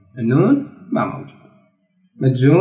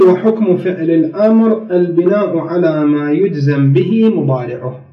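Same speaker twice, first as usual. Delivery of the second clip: slow, measured reading in formal Arabic; formal text reading; slower than usual. Real, not acted. Teacher reads the grammar rule to students, formal reading. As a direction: read the rule out slowly.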